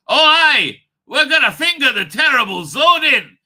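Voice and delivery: very enthusiastic, loud and high; Jamie. Acted. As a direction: belt it out as an over-eager sidekick. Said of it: "Very, very, you know, uh, uh, enthusiastically".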